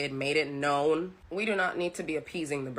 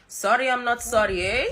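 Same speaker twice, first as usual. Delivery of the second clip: higher, louder quoted catchphrase; a singer; 6 semitones higher, 6 dB louder than usual. Retold or imitated. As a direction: mimic her cheeky line with relish. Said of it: "I love the way she said".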